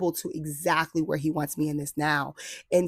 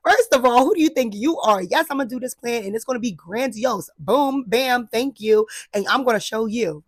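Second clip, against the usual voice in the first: high, louder, defiant sass; sassy defiance; 5 semitones higher, 3 dB louder than usual. Retold or imitated. Imitating her offended self defending the grand plan. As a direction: tell them off with bravado. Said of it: "I was so offended".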